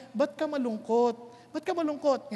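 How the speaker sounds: soft, caring question asked twice; gentle concern. Retold or imitated. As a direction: ask kindly, as one who pities them.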